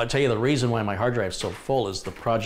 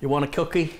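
much higher and louder sing-song offer; excited pet talk; 7 semitones higher, 4 dB louder than usual. Real, not acted. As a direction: make the dogs excited. Offering cookies to dogs.

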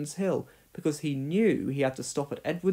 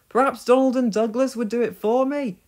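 hopeful suggestion; 8 semitones higher, 6 dB louder than usual. Acted. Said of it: "he began".

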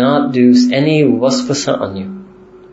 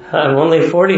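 incredulous echo; 4 semitones higher than usual. Retold or imitated. Teacher echoes the excuse to students in mock disbelief. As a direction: echo "I'm only forty" with a rising, disbelieving tune.

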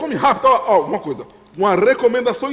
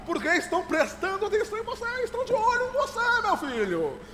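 insistent warning; 7 semitones higher, 3 dB quieter than usual. Acted. Father warns son he is being watched, insistently. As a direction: stretch the warning up high.

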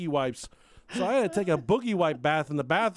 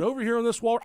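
burp cough; 8 semitones higher, 4 dB louder, faster than usual. Retold or imitated. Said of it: "He burp coughed".

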